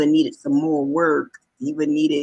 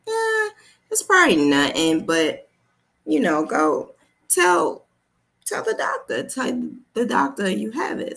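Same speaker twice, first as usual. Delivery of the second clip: lightly voiced mom figure, higher, soothing; reassuring mom figure; 6 semitones higher than usual. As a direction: gently urge her to see the doctor.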